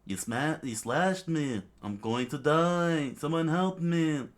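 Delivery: high, wailing cries for help; hammed-up dying wail, slow and loud; screaming in panic. Wounded king begging his men for help, panicked scream. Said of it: "the king screamed out".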